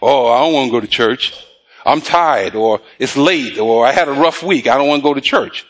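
half-acted weary reluctance; imitated reluctant churchgoer. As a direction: grumble excuses like someone skipping church. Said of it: "some people think".

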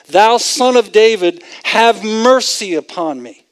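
mild mock yell. Preacher retells blind men yelling after Jesus, mild mock yell. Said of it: "They're screaming at the top of their lungs. They're yelling".

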